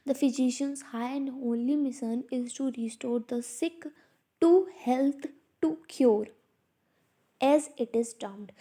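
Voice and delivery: reading the principle out slowly, word by word; slow textbook reading. Acted. Teacher reads the principle aloud to students, slow and deliberate. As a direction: dictate it to the class at a crawl.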